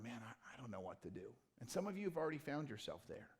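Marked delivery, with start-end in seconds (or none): 0.0-1.3 mock despair.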